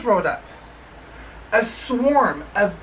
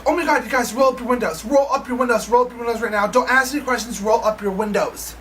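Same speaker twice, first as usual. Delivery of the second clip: mild panic. Retold or imitated. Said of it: "starts panicking".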